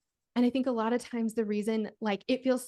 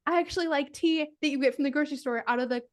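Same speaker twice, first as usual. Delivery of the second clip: mock confession; 4 semitones higher, 3 dB louder than usual. Imagines another confession from husband.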